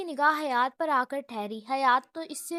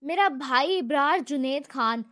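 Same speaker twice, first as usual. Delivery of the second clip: stern; 5 dB louder than usual. Acted. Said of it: "امن کا لہجہ اب بھی سخت تھا".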